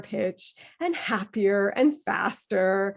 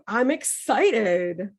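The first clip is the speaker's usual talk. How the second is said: excited; much slower than usual. Shown as a demonstration. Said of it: "I like to do".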